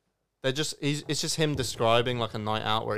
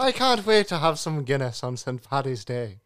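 put-on Irish accent. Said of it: "spoke in an Irish accent".

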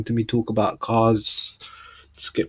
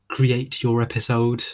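forced customer service voice; 2 semitones higher, slower than usual. Shown as a demonstration. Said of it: "That was just me forcing it".

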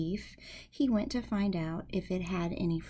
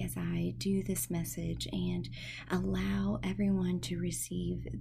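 heartfelt prayer. Real, not acted. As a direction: pray sincerely over the listeners. Opening prayer for listeners.

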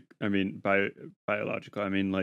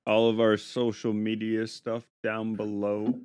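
chewing while talking; 4 dB louder than usual. Real, not acted. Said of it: "I'm chewing on some candy".

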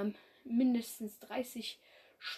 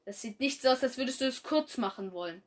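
hiss; 2 semitones higher, 5 dB louder, faster than usual. Acted. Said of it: "fauchte Mondstern".

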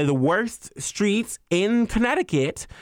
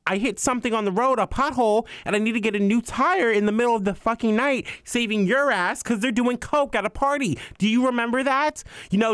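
higher, heated and indignant; pissed off rant; 4 semitones higher than usual. Real, not acted. Telling off the friend who called someone else day one, heated. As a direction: let the outrage run, sharp and fast. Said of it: "that just really pissed me off".

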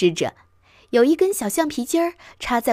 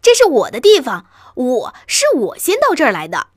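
shrieking; 3 semitones higher, 7 dB louder than usual. A narrator's reading. Mouse claims it got here first, shrieking. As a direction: shriek your claim to the spot. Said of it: "老鼠尖叫道".

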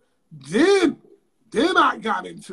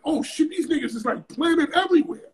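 higher, rushed mock panic; retold alarm; 6 semitones higher than usual. Telling the host how he saw the men planted everywhere: higher mock panic. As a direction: replay the moment it hit you.

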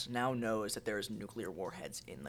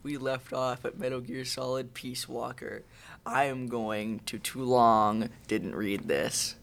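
movie trailer voice; 5 dB louder than usual. Pretend. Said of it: "Trailer voice".

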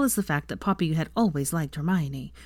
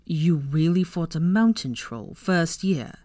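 shocked; slower than usual. Acted. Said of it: "staring at her in shock".

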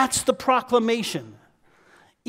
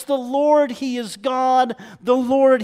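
raised, emphatic declaration; proclaiming; 4 semitones higher, 4 dB louder than usual. Retold or imitated. Preacher urging whole-hearted faith, forceful proclamation. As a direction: ring it out higher and louder.

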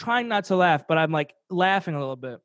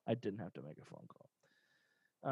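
much softer, slow confession; sheepish aside; 9 semitones lower, 18 dB quieter, slower than usual. Real, not acted. Telling his friend he lied, much softer and slow. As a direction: drop the voice, admit the lie.

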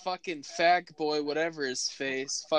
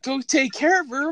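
higher, louder disbelieving repeat; incredulous echo; 8 semitones higher, 7 dB louder than usual. Retold or imitated. Son repeating mom's order, higher and louder disbelief. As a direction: throw it back in disbelief. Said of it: "I'm like".

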